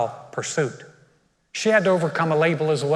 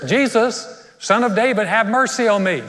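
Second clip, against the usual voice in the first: higher, pleading cry of a mother; pleading woman; 5 semitones higher than usual. Retold or imitated. Preacher voicing the mother crying to Jesus, pleading. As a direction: beg for mercy, reaching up.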